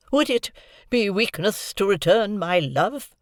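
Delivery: high, slow pleading exclamation; exclaiming. A narrator's reading. Havisham exclaiming to Estella, pleading. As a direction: burst out with hurt. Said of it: "exclaimed Miss Havisham".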